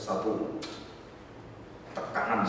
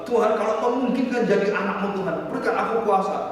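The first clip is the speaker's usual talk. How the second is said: raised, urgent plea to God; desperate prayer; 10 semitones higher, 7 dB louder than usual. Retold or imitated. Wounded son praying to God for power, desperate prayer. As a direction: pray it high and pressing. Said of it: "Dia sambil berdoa".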